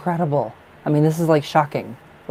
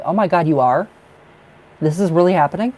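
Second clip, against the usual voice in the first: higher and louder, surprised disbelief; astonished; 4 semitones higher, 5 dB louder than usual. Real, not acted. Reader reacting to the client's baby news, astonished. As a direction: gasp it out, can't believe it.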